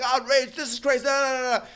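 high, loud mocking rant; mock outrage. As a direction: parody an angry caller's ranting. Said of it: "that was like".

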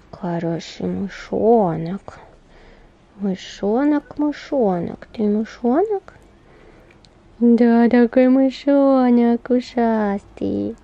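slow tender cooing at a puppy; talking to a dog. Real, not acted.

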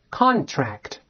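"contract" with a clear front n in "con"; front nasal pronunciation. Shown as a demonstration. Teacher repeats the word for students, "contract" with front nasal n. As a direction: model "contract", tongue closing on n, not ng. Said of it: "完了发前鼻音".

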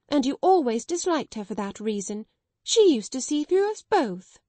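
timid sister finally defying headmistress, building; reckless courage. Acted. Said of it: "with a kind of reckless courage".

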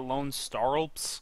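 stumbling over words while tipsy. Real, not acted. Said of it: "hard name to say when you're drunk".

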